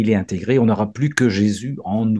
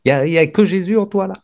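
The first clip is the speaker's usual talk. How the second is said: Jesus at the gate; 7 semitones higher, faster than usual. Acted. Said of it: "Il dit, Jésus, il dira ça".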